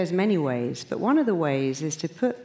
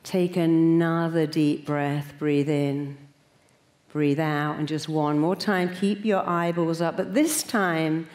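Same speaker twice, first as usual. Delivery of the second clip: slow, calm breathing cues; guided meditation; slower than usual. Acted. Leading the audience into a relaxation exercise, slow and calm. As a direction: guide them gently into breathing in and out.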